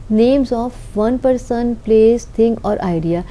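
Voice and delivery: very slow, word by word, as if for notes; slow dictation. Shown as a demonstration. Teacher reading a definition to the class, very slowly. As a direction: spell out the definition slowly for students.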